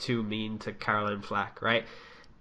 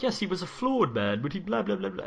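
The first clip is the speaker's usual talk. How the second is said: mocking pundit voice; 8 semitones higher than usual. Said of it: "but Piers Morgan is like".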